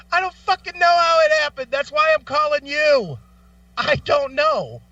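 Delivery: high, fed-up outburst; exasperated retort. Retold or imitated. Caller snapping at the agent, high exasperated retort. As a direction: let the frustration boil over. Retelling his annoyed reply.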